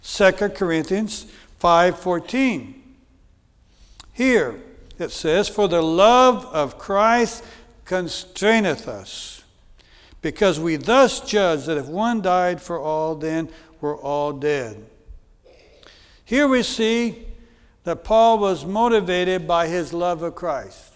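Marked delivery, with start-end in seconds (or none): 5.5-14.9 scripture reading. Acted. Reads scripture slowly.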